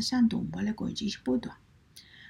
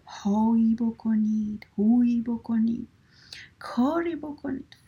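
mock shout; 3 dB louder than usual.

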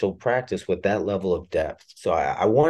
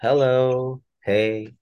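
soft bedside voice; 4 semitones higher, much slower than usual. Shown as a demonstration. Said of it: "is the opposite of that".

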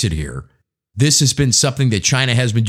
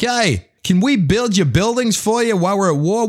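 mock Australian ally; 9 semitones higher than usual. Australia voiced as a wartime ally.

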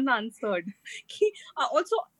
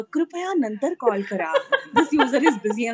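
auto-dialer message; 3 semitones higher than usual. Retold or imitated. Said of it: "you ended up saying ki".

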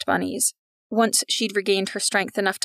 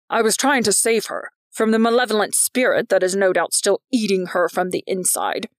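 a hint of a zealous accuser; lightly voiced vice principal. McGuckin justifying himself about a malevolent spirit, lightly voiced zeal. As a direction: lightly voice a self-righteous zealot.

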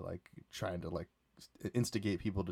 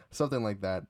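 ordinary talk, nothing marked

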